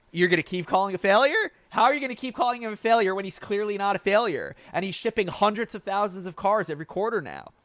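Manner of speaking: real heated outburst, near yelling; fired-up rant. Real, not acted. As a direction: let it boil over at the Tesla doubters. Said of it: "I'm not yelling at you".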